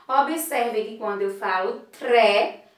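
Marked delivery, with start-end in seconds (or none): 2.0-2.6 "tré" in one go, T blended straight into R; T and R together. Shown as a demonstration. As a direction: demonstrate "tré" as a single joined syllable. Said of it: "são pronunciados de uma só vez". ("tré" com T e R pronunciados de uma só vez)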